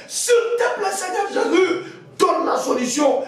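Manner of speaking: high, impassioned plea; imploring, almost sung supplication; pleading prayer. Real, not acted. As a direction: cry it upward as a desperate appeal. Pleading aloud to Jesus in prayer.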